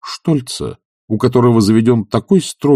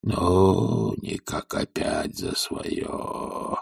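inner thought; 9 dB quieter, much slower than usual. A narrator's reading. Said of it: "думал Захар".

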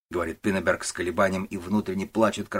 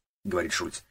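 ordinary delivery, nothing marked

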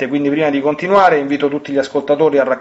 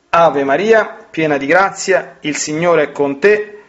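prayer; 2 semitones higher than usual. Acted. Leads a Hail Mary prayer.

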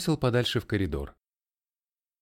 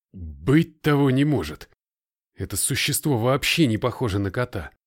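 incredulous; 2 semitones higher, 5 dB louder than usual. A narrator's reading. Colton disbelieving outburst.

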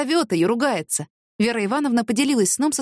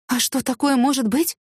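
frightened; 4 semitones higher than usual. Acted. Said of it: "испугалась Вера Ивановна".

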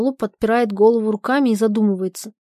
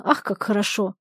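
dreamy sigh; 5 dB quieter than usual. Acted. Polina dreamy.

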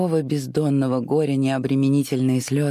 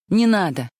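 higher, louder, sharp shout of protest; furious cry; 6 semitones higher, 4 dB louder than usual. A narrator's reading. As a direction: fling out the order in fury. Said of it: "яростно вскричала вдруг Скарлетт".

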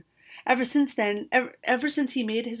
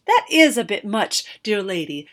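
indignant protest; 8 dB louder than usual. A narrator's reading. Shocked magicians protest.

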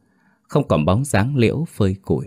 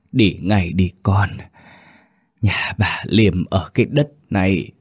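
faint frightened whisper. Acted. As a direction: urge her to flee in a failing voice. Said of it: "hơi thở thều thào nhưng giọng nói đầy vẻ kinh hãi".

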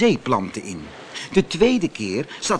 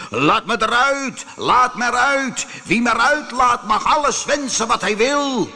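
calling out; 10 semitones higher, 4 dB louder than usual. Acted. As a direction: plead loudly to be let out. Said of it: "riep ik steeds". (luid en smekend roepen)

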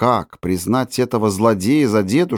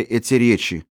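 plain reading voice

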